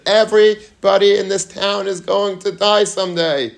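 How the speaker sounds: high, booming preacher's cry; fire and brimstone preaching. Retold or imitated. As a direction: thunder it at the whole room. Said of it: "goes even in a higher decibel".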